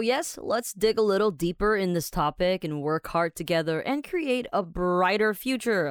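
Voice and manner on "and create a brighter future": slow, mock-inspiring slogan read; over-earnest uplifting pep line; hammed-up positivity. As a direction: read it like a cheesy motivational poster. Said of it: "好正面哦".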